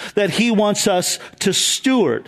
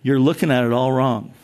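put-on wise older man; 7 semitones lower than usual. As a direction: lightly voice the calm mentor setting him straight. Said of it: "And he goes".

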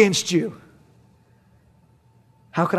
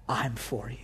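tender; 6 semitones lower, 13 dB quieter than usual. Acted. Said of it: "God is saying".

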